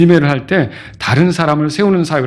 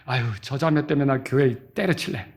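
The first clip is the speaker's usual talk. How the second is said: sulky grumble; 6 semitones lower, 9 dB quieter than usual. Acted. Voicing a sulking believer.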